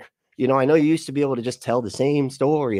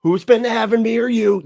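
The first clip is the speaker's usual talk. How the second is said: higher, louder mocking yell; mock shout; 11 semitones higher, 6 dB louder than usual. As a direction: repeat it much higher and louder, gloating. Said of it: "And she's like".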